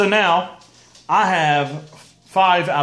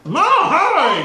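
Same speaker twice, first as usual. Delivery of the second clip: laughing; 13 semitones higher, 4 dB louder, slower than usual. Real, not acted. Urgent laughing plea.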